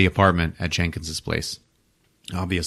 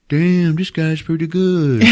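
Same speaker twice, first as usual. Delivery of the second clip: slow, higher, wondering creature voice; impressed merman; 7 semitones higher, slower than usual. Retold or imitated. Merman admires sketches of himself, slow higher wonder. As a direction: savour the words like a curious creature. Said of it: "looking at him like".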